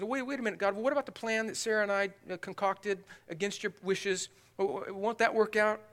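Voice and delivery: flustered protest. Retold or imitated. Abraham objects to God about his own plan, flustered protest.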